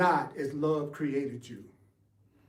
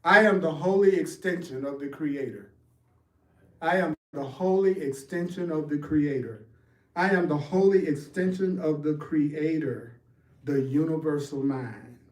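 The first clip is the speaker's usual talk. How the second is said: solemn affirmation. Shown as a demonstration. Teacher models a solemn affirmation for students to repeat. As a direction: say it inwardly like a sacred vow. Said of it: "solemnly. inside".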